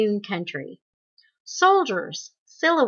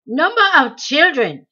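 higher, louder impatient snap; snapped; 6 semitones higher, 8 dB louder than usual. A narrator's reading. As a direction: bite off the question in irritation. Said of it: "he snapped".

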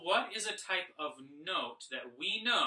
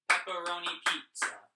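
"Pepperoni pizza" louder, run together in rhythm; a bit faster; 3 semitones higher, 6 dB louder than usual. Shown as a demonstration. Teacher showing the right rhythm for "Pepperoni pizza", a bit faster. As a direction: say "Pepperoni pizza" briskly, without dragging "pizza". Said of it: "we are going a little bit faster".

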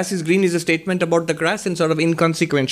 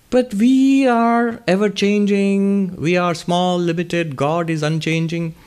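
quoted question; 5 semitones higher, slower than usual. Retold or imitated. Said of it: "Peggy's question is".

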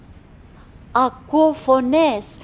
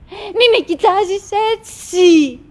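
slow, higher, louder insistence; insistent plea; 5 semitones higher, 4 dB louder, slower than usual. Acted. Wife insistently begging her husband not to stare. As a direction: lean hard on the repeat.

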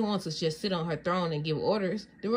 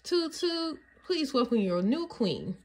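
fanfare announcement; 6 semitones higher, slower than usual. Acted. Announcing the new queen.

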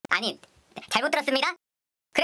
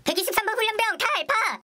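military roll call shout; 5 semitones higher than usual. Acted. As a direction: shout the number at attention. Recruit answers roll call again.

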